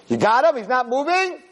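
high-pitched, urgent checking; acted doctor calling out questions. Doctor to parents pinning the boy, urgent.

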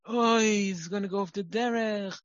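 high, loud hand-wringing alarm; a horrified parent wailing over the damage, played up; mock-panicked lament about knives and scars; panicked overreaction. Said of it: "And you are like".

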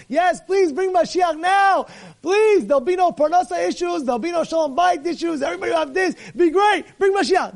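desperate plea for rescue; pleading cry. Retold or imitated. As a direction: beg for Mashiach like you're drowning. Guy with problems begging for Mashiach.

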